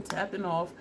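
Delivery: talking through hiccups. Real, not acted.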